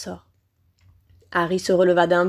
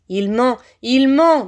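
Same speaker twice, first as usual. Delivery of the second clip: accusing cry rising higher and louder; high-pitched voice; 3 semitones higher, 6 dB louder, slower than usual. A narrator's reading. Hidden master warns his servant of a lie, high-pitched. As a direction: sharpen the repeat into a high, loud accusation. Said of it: "une voix aiguë s'exprima".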